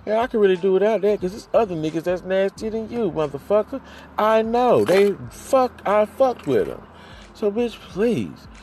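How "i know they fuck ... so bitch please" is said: mock dismissal. Real, not acted. Ranting at absent partner.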